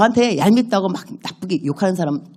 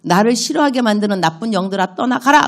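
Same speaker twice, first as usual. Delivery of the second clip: commanding prayer; 3 semitones higher than usual. Shown as a demonstration.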